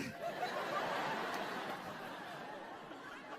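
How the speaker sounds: quiet wheezing laugh; breathy silent laugh. Real, not acted. Comic laughs at own joke.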